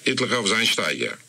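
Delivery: ordinary delivery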